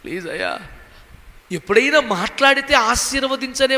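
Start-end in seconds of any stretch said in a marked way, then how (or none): 0.0-0.6 lower, softer begging prayer; quiet pleading. Retold or imitated. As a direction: murmur the plea half to himself. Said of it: "చెవిపెట్టి వింటే". (మెల్లగా, తక్కువ స్వరంతో వేడుకోలు)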